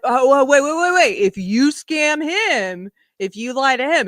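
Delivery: sarcastic fake realization about his standards; mock surprise. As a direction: feign sudden shock, drawing it out. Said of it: "mock realization".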